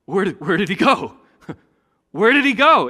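loud, high, searching calls; bewildered shout. Retold or imitated. Young prophets searching for vanished Elijah, loud high calling. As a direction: call out looking for him. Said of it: "they're like".

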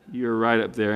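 ordinary talk, nothing marked

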